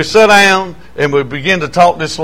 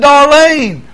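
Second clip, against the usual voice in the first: laughing; 9 semitones higher than usual. Retold or imitated. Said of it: "I said".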